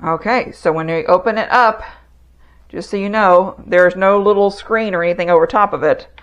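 speaking through a face mask; muffled behind a dust mask. Real, not acted. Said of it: "I'm expecting to be muffled".

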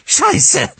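a high, loud shriek of panic; panicked scream. Acted. Driver screaming as her car spins, panicked.

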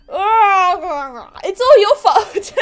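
loud, high, slow whining accusation; whiny blame. Acted. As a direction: wail the blame at her. Character blames player.

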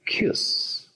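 "cuse" said alone as the stressed syllable. Shown as a demonstration. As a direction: isolate "cuse" for the learners. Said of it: "Sílaba estresada".

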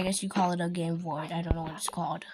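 breathy whisper to the audience; quick whisper behind the hand; whispered aside. Real, not acted. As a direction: drop to a secret whisper.

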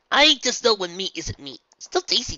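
put-on loud, high eager pirate boy. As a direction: shout it hungrily. Luffy character voice.

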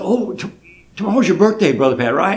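a hint of a sweet old neighbour; lightly voiced old lady.

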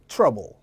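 "trouble" with a loose "uh" in the first syllable; relaxed vowel. Shown as a demonstration. Teacher contrasting it with travel, "trouble" with a relaxed vowel. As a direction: let the mouth go slack on the vowel of "trouble". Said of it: "얘는 힘을 좀 빼시고".

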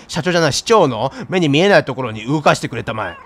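fix the misread word 社長 to 市長; self-correction. Acted. Misreading 社長 then correcting to 市長.

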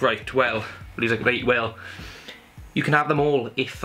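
a weak put-on Scottish accent, barely there; mock brother's voice in a half-hearted Scottish accent; bad Scottish accent. Lightly imitating brother in a bad Scottish accent. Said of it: "that's a bad Scottish accent".

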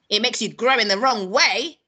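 loud grandma snap; snapped retort. A narrator's reading. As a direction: snap it at the boy, loudly. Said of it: "she snapped".

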